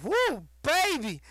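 high goofy critic reacting to sugar; imitating the critic. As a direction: squeal over something too sweet. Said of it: "he's like".

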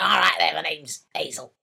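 mock Mancunian "all right there" greeting; Mancunian accent. The speaker doing a put-on Mancunian accent for Hazel's intro. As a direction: put on a Manchester accent, overdone. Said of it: "That's, that's a Mancunian accent".

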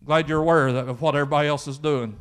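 lightly acted God, patiently unimpressed; God humouring Elijah. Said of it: "God's like".

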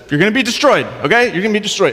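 high, curt mock-preached warning; grudging prophet. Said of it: "he did not do it wholeheartedly".

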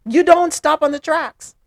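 high, loud, incredulous telling-off; indignant scolding. Real, not acted. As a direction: scold in emphatic bursts with pauses between. Host scolds officer for parking there.

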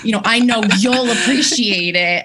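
lightly imitated New York accent; playful New York great aunt accent. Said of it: "in her heavy New York accent".

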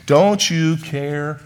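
drawn-out, very slow "Don't you care?"; slow pleading question. Retold or imitated. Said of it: "That's how they worded it".

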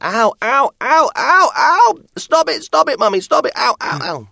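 put-on high loud toddler protest; whiny child. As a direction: whine like a child having her hair brushed. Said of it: "she was like".

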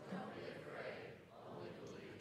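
whispered softly. Shown as a demonstration. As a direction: breathe it out under the breath. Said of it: "Say it like you mean it".

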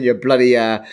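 put-on Cockney scolding; joking Cockney accent. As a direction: attempt a mock Cockney. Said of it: "English accent I do is a Cockney accent".

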